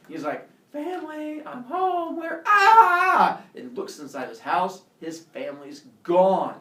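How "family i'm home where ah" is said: high sing-out greeting breaking into a loud scream; calling out, then screaming. Retold or imitated. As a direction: call home, then shriek in mock shock. Cheery homecoming cut by scream.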